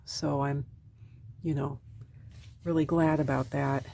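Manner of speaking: weak recovering voice. Real, not acted. Recovering vlogger explaining oil pastels over her drawing, weak quiet voice. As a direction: talk gently, voice not fully back. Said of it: "it's gonna be very quiet".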